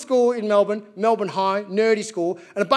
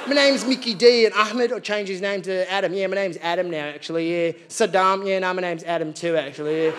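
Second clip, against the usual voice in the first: put-on casual Aussie accent. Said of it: "a Muhammad who'd be like".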